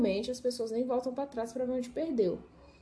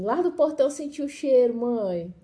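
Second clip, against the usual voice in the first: higher-pitched imitation of an eager child; excited son; 4 semitones higher, 4 dB louder than usual. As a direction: play a son calling to mother. Acts son arriving home hungry.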